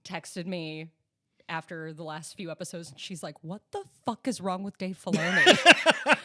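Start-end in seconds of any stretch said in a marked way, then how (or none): 3.4-6.2 much louder, indignant quote; exasperated mock outrage. Friend texting after the last few episodes, exasperated. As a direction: imitate a friend's loud, baffled complaint. Retells friend's upset text.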